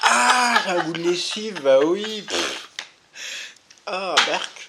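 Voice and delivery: loud disgusted reaction. Real, not acted. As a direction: recoil at the taste, loudly. Tastes ginger candy.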